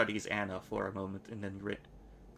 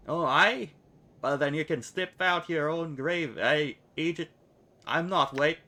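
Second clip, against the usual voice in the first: put-on louder, higher, a brash girl snapping back; loud retort; 6 semitones higher, 5 dB louder than usual. Anna snapping back at the nameless one, louder. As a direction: hit back hard, faster at the end.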